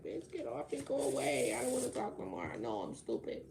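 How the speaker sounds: high-pitched mocking imitation; mock dismissal. Mimics someone rejecting her.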